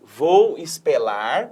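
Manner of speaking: "espelar" with an L in place of the R, slow; mild kid lisp; Cebolinha's L for R. Acted. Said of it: "porque ele troca o R pelo L".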